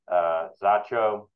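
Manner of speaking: "Zacho" said slowly with a careful attempt at Danish sounds; a hesitant, mild stab at a Danish pronunciation of "Zacho"; attempted Danish accent. Shown as a demonstration. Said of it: "I tried my very best on my Danish accent there".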